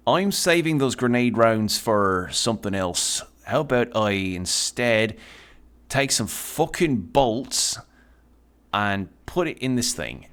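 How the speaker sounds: put-on slow, drawn-out amateur Irish accent; unpractised Irish accent, taken slowly; attempted Irish accent. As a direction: have a shaky go at Irish, leaning on the R's. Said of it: "for Irish accents, I don't really have".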